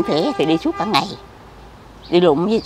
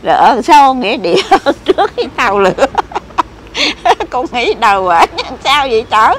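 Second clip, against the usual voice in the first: laughing; 5 semitones higher, 6 dB louder than usual. Real, not acted. Cười khi kể chỗ ở.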